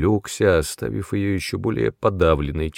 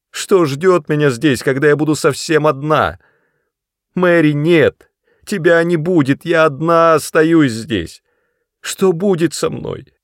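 high, loud wailing; despairing wail; 9 semitones higher, 7 dB louder than usual. A narrator's reading. Sister wails about being left alone, loud.

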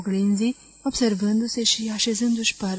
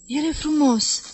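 higher, proud little reply; proud answer; 5 semitones higher, 3 dB louder than usual. Acted. Vera answering the wives about Jim, proud and higher. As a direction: say it with shy pride. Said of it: "răspunse mândră".

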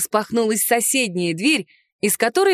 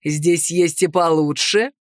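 low, slow, leering voice; leering brash man; 5 semitones lower, slower than usual. A narrator's reading. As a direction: size her up with a lower, lazy leer. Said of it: "произнёс он". (наглец оценивает героиню, низко и медленно)

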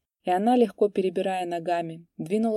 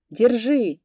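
higher, louder thin yell; 5 semitones higher, 6 dB louder than usual. A narrator's reading. Clerk yells after the horse thief. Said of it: "завопил писарь тоненьким голосом".

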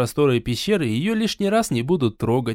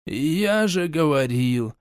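put-on slow, heavy-hearted old man; weary sigh; much slower than usual. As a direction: say it with a tired sigh. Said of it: "тяжело вздохнул".

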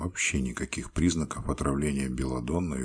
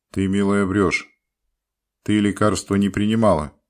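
loud, stern accusation; 6 semitones higher, 10 dB louder than usual. A narrator's reading. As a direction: lay down the law sternly. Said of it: "строго молвил".

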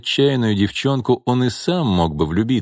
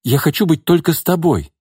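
higher, louder, insistent woman; declaring; 8 semitones higher, 3 dB louder than usual. A narrator's reading. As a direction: declare it firmly. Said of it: "заявила Нина".

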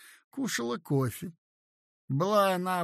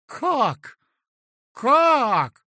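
higher, louder astonished exclamation; astonished cry; 9 semitones higher, 10 dB louder than usual. A narrator's reading. Elena astonished at the idea of joining her husband. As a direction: gasp it out in disbelief. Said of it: "вскричала она в удивлении".

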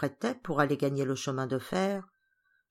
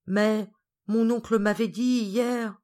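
slow, higher, plaintive protest; sadly; 4 semitones higher, 3 dB louder, slower than usual. Acted. Geneviève protesting to Georges about her uncle's promise, sadly. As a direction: draw it out in mild, acted sadness. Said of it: "Geneviève tristement".

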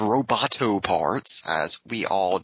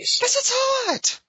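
squeaky high voice; slower than usual. Acted. Luke squeaking about his sister.

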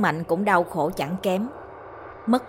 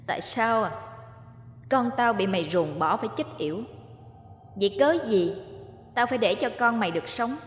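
vengeful ghost; 3 semitones higher, faster than usual. Acted. Ghost Lý answering Mạnh with scorn and vengeance. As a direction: sneer it, then swear revenge.

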